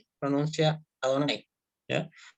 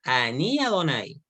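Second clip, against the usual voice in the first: slow careful Hebrew; 2 semitones lower, slower than usual. Shown as a demonstration. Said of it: "Miren, fíjense que".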